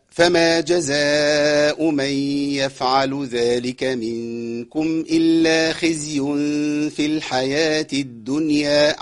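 slow, drawn-out chanted recitation; Quran recitation. Acted. Teacher recites the verse for the class. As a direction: stretch the long vowels slowly.

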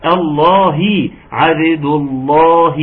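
عبد الله with a full clear kasra on the final هاء; kasra on the haa. Shown as a demonstration. Teacher showing the kasra on the haa to a student. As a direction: give the هاء of الله a true kasra, slow. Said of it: "كسر الهاء".

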